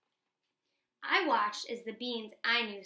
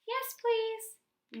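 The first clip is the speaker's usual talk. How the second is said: eager yes; 11 semitones higher than usual. Acted. Bean accepting help.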